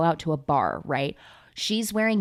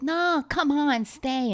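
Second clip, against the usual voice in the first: imitating a singer; 8 semitones higher, slower than usual. Acted. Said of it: "Elvis Presley is the honeypot".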